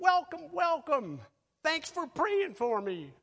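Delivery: put-on very high, eager, excited baby voice screaming. Describing little baby bodies hugging your legs, retelling a scream. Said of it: "and they're screaming".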